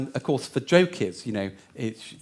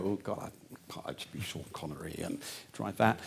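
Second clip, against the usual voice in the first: tittering executives; 3 semitones lower, 9 dB quieter than usual. Retold or imitated. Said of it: "everyone in the room titters and go".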